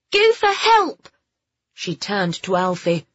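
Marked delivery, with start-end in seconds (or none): 0.1-1.1 put-on high, loud girl's shout; shouted command. A narrator's reading. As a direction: shout urgently to the dogs outside. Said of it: "Phoebe shouted".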